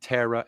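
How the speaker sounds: "terror" as TERR-uh, no final r; imitating guest's pronunciation. Host teasing the writer, "terror" said as TERR-uh. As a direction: end "terror" on an open uh. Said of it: "never heard you say terror like that".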